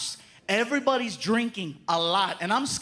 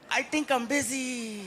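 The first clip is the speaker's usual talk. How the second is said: dry brush-off; slower than usual. Retold or imitated. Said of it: "I go".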